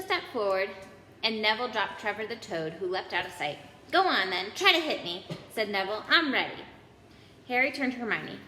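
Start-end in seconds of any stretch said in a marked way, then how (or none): 3.9-6.6 loud brave challenge; defiant dare. Acted. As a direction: square up to them. Neville dares them.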